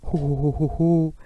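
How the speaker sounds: laughter on the vowel O; laughing ho ho. Shown as a demonstration. Teacher demonstrating a laugh on the vowel O, a round ho ho. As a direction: let the belly laugh ring on O. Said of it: "transformez en la voyelle O".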